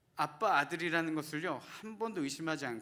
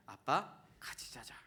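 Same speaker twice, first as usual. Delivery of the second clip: softer whispered bedtime request; whispered child plea; 3 semitones lower, 3 dB quieter, slower than usual. Retold or imitated. Son whispering to his angry father at bedtime. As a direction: whisper it like a sleepy kid. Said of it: "하준이는 뭐라고 이야기하냐?".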